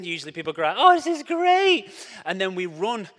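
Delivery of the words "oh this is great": slow, much higher and louder "oh"; delighted. Pretend. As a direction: savour it with big delight. People's delighted reaction.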